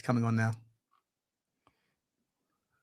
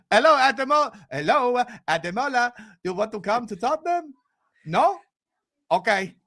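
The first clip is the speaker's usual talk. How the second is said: halting, badly faked Swedish accent; mild, awkward Swedish-accented executive; Johan Lang; 2 semitones lower than usual. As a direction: pitch timidly in Scandinavian English, then give up. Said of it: "I can't do the Swedish accent".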